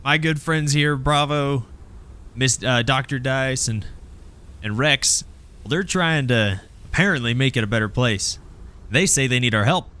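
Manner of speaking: lightly voiced leader presenting allies; pitched a little up, speaking to a crowd; Amy addressing crowd. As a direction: introduce your friends to the gang. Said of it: "She goes".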